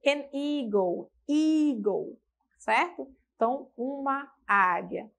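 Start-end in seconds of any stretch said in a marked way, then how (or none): 0.1-2.2 slow model phrase. Shown as a demonstration.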